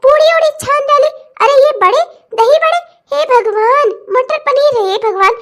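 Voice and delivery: accusing, scandalised questions; indignant scolding. Acted. Mother-in-law questioning the used-up groceries, indignant scolding. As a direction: pick at her in rising outrage.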